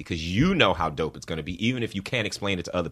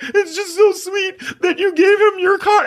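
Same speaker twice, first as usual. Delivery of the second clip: mocking Neil; 13 dB louder than usual. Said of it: "He's like".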